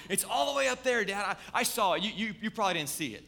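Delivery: imitating a little boy sure he's right; insistent excited child. A father imitating his son insisting he saw the turtle, high and loud.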